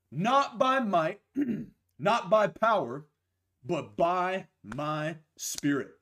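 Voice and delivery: slow, rising scripture proclamation; slow emphatic scripture reading. Acted. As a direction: proclaim each phrase slowly.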